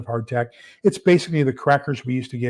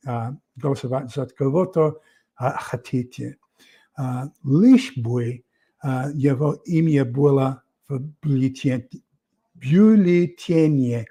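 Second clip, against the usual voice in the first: mock Soviet official. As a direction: parody an old Soviet clerk granting a fake choice. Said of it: "reminiscent back in the olden days".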